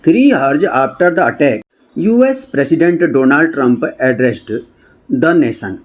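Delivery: slow, word-by-word English reading; read-aloud news text. Shown as a demonstration. Teacher reading a news report to students, slow read-aloud. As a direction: read it out slowly with gaps between phrases.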